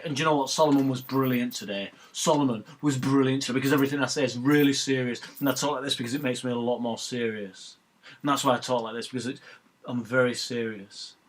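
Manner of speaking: imitating a self-important pundit who drags out every word; mock him as a man who thinks he sounds serious; a lightly hammed-up, overly serious pundit voice. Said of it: "I break it up, and sometimes I talk quickly, and then sometimes I slow it down because I'm very serious".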